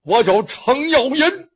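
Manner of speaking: slow, lightly put-on gruff voice; big gruff voice. Luo Cheng rehearses his disguise, gruff voice. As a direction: try out a coarse big voice. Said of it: "我得拿个大粗声".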